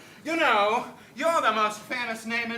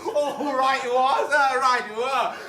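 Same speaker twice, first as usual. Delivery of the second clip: loud laughing oh-oh-ohs, higher pitch; braying laugh; 4 semitones higher, 6 dB louder than usual. Acted. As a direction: bray with laughter through the words. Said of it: "that terrible braying laugh of yours".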